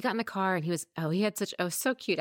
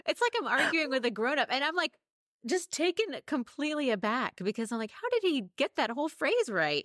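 high-pitched, laughing amazement; amused disbelief; 12 semitones higher than usual. Real, not acted. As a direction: marvel while cracking up. Mother cracks up retelling swearing.

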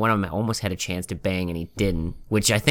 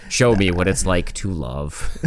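slow, monotone robot voice; slower than usual. Pretend. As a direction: speak it like a flat robot. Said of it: "play a robot with that monotone ass voice".

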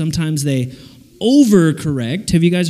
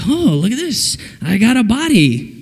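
higher, playful wonder; amazed new Adam; 4 semitones higher than usual. Acted. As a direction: marvel in mock discovery of your own body. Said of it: "And then he's like".

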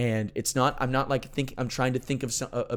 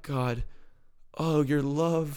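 moved; 4 semitones higher, much slower than usual. Real, not acted. Overwhelmed prayer while crying.

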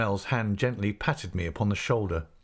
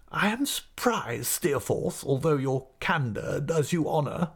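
high, measured, condescending headmaster; reproving schoolmaster; 6 semitones higher than usual. Acted. Headmaster tells Steerforth he is surprised, condescending. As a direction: reprove a favourite with pompous courtesy. Creakle reproves favourite pupil.

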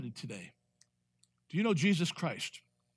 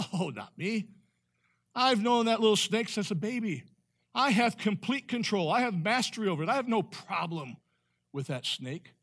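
loud, cocky reassurance, pitched up; boastful; 5 semitones higher, 4 dB louder than usual. Retold or imitated. Snake handler boasting to worried people, loud and cocky. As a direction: brush off the warning with swagger. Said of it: "people would say".

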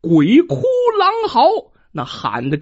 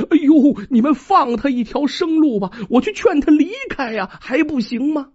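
earnest pleading; 5 semitones higher than usual. Acted. Wu Tong kneels, begging the archers to spare the fox, pleading. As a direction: beg them to spare the fox. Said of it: "跪地恳求".

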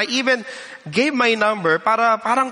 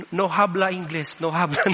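mock no-English; 3 semitones lower than usual. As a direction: pretend not to speak English, chuckling. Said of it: "Gusto kong sabihin". (kunwaring hindi marunong mag-Ingles, tumatawa)

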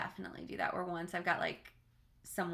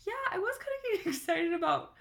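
man doing a woman's voice; 10 semitones higher, 5 dB louder than usual. Retold or imitated. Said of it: "He was like".

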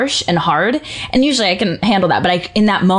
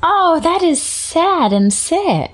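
laughing disgust; 10 semitones higher, much slower than usual. Real, not acted. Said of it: "reacting to Going Postal name".

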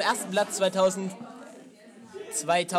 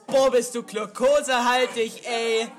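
shouting; 4 semitones higher, 6 dB louder than usual. Retold or imitated. Retold classroom shouting at each other.

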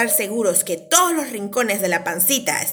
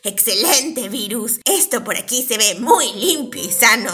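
scheming villain voice. Acted. Plays the scheming bacteria.

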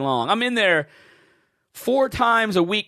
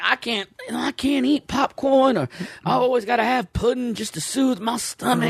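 put-on old Southerner; 5 semitones higher than usual. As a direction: talk like an old Southern man. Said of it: "I don't know why I'm talking like an old Southerner".

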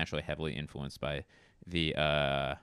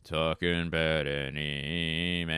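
put-on Scottish accent; slower than usual. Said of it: "Scottish accent".

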